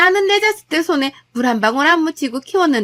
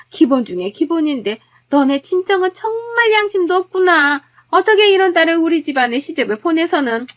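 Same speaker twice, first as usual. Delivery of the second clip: acted nagging mother-in-law, a bit raised and higher; scolding mother-in-law; 4 semitones higher, 4 dB louder than usual. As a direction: scold the daughter-in-law over every dish. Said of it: "하나하나 타박을 하시더라고요". (며느리를 타박하는 시어머니, 조금 높인 목소리)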